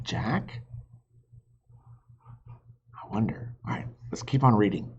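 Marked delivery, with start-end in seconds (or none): 2.5-3.5 suspenseful whisper. Real, not acted. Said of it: "teacher builds suspense".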